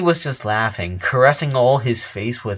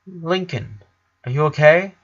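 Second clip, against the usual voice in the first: monotone; 5 semitones higher than usual. A narrator's reading. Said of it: "usual monotone voice".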